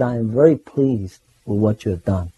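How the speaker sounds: lightly voiced guru, low-pitched; imitating Prabhupada. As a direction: imitate a teacher's gentle approval. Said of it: "such a beautiful way".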